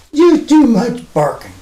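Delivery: high mock scold in broken English. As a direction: playfully tell the puppy off. Scolding the barking dog.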